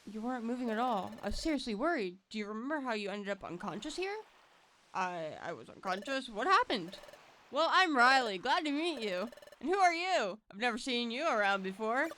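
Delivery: lightly voiced, upbeat partner Pokemon; a cheerful kid introducing himself; friendly Riley. Voices Riley greeting the hero.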